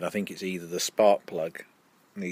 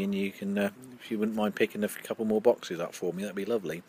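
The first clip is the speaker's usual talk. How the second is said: cigar between lips while speaking; words around a cigar; talking with cigar at lips; 5 dB quieter than usual. Real, not acted. Seen 0: Cigar touches lips while talking, briefly lowered mid-sentence, none in references.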